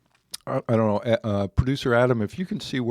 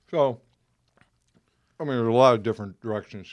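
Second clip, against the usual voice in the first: talking through a mouthful of food; words round a bite of food; mouth full. Real, not acted. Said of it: "I'm talking with food in my mouth".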